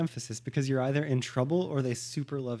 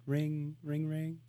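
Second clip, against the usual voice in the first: softer spoken ring-ring; imitating phone ring; 7 dB quieter, much slower than usual. Pretend call from his friend, soft imitated ringing. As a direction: play a phone ringing away softly. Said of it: "Now it's gonna ring".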